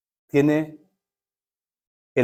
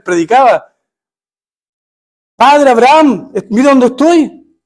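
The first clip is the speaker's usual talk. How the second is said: a higher, louder indignant plea; pleading protest; 3 semitones higher, 4 dB louder than usual. Acted. Rich man pleading with Abraham, loud and indignant. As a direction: protest your good record, desperate. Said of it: "Él dice".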